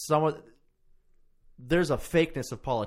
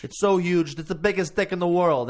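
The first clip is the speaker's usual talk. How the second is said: lightly voiced, higher bar braggart; bragging bar guy; 5 semitones higher, 4 dB louder than usual. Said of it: "sounds like a guy in a bar".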